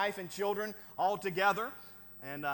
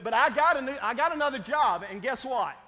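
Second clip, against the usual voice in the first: excited build-up; 6 semitones higher, 9 dB louder than usual. Real, not acted. Building to the punchline.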